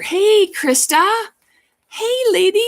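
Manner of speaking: high, loud delighted hello; light up at seeing a friend; excited greeting. Real, not acted. Vlogger spotting a friend in her chat, delighted high greeting.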